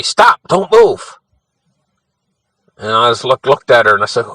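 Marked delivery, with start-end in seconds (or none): 0.0-1.2 high, slow, urgent warning shout, half-acted; retold yell. Grandmother warning the child about the snake, mock urgent yell. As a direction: freeze her in place with a sharp high call. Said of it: "she yells at me".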